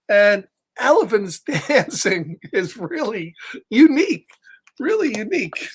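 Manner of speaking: laughs through the words; chuckling with delight at the dance; laughing. Real, not acted. Laughing while praising the dance.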